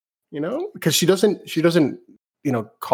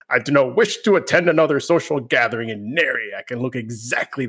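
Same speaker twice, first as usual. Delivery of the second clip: pompous lady voice. Acted. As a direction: play a snooty socialite, slowing down on the last line. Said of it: "your voice acting for the female lady".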